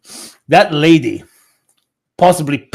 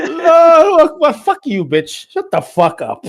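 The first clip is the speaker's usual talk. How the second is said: much higher cry broken by laughter; laughing mock shout; 14 semitones higher, 4 dB louder than usual. Echoing the man in the clip, laughing as he shouts. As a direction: repeat the cry while cracking up. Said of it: "some random guy and go".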